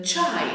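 "τσάι" with a thick ch, not the Greek ts; thick Turkish ch. Shown as a demonstration. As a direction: open "τσάι" with a heavy ch sound. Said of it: "το προφέρουμε πιο χοντρά". (χοντρό τσ στο «τσάι»)

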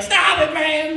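mock terrified squeal; high panicked plea. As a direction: beg him to stop in panic.

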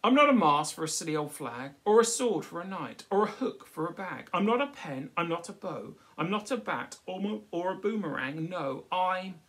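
high, loud, indignant stick voice; Stickman's protest. Acted. Stickman protesting to the crowd, high and insistent. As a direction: insist you're Stickman, not a poo stick.

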